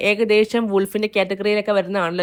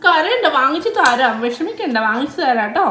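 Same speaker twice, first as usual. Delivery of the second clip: soothing; 3 semitones higher than usual. Real, not acted. Mother comforts her crying child.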